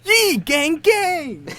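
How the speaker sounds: catchphrase pitched high. Retold or imitated. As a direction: repeat it up high. Echoing catchphrase higher.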